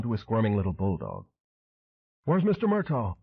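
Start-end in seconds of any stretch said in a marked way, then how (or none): 2.2-3.2 much higher shouted Memphis drawl; husky Memphis drawl shout. A narrator's reading. Elvis impersonator demanding his boss: Memphis drawl shout. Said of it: "Elvis shouted in that husky Memphis drawl".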